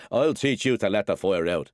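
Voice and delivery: furious father with the stick ready; angry threat. Acted. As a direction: threaten a beating.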